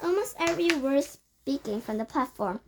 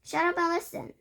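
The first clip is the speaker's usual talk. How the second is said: high, sharp snap; snapped; 7 semitones higher, 3 dB louder than usual. A narrator's reading. Grand High Witch snapping at the cheering witches. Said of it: "snapped the Grand High Witch".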